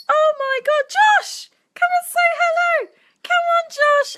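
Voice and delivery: high, loud call to the dog. Real, not acted. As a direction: call him over across the room. Calling the dog over.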